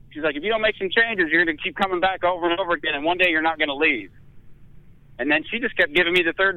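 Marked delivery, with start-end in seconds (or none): 0.4-4.1 high mock warning, rushing in the middle; lightly voiced nurse lecturing.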